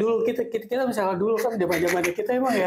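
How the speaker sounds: talking around a lit cigarette; cigarette in mouth. Real, not acted. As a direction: speak with a cigarette between the lips. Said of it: "Sambil ngerokok ya?". (bicara sambil merokok)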